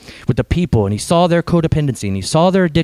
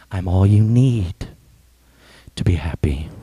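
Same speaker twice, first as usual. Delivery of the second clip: tender assurance; 7 semitones lower than usual. Retold or imitated. Jesus on the cross assuring you, tender and hushed. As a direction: let it sink into a hushed whisper.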